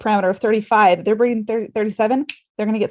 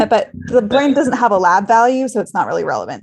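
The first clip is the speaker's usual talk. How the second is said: sarcastic. Acted. Nurse mocking ICU priorities to podcast host, sarcastic. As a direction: say it deadpan as if it were obvious, with a laugh at the start.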